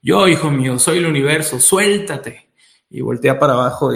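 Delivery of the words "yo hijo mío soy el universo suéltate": lightly voiced voice of the universe; a hint of a heavenly father addressing his son; mildly acted divine command; celestial voice. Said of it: "una voz celestial que le dice".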